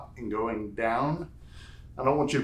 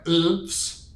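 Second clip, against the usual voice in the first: drawn-out, higher sound effect; entertaining sounds; 6 semitones higher, 4 dB louder than usual. Shown as a demonstration. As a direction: stretch it out high and playfully. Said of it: "make it entertaining with my sounds".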